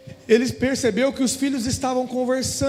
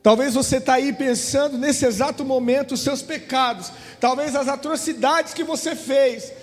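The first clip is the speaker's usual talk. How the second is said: earnest, slowing preacher appeal; preaching. Acted. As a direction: plead with the congregation, drawing words out. Preacher addressing congregation. (pregação fervorosa)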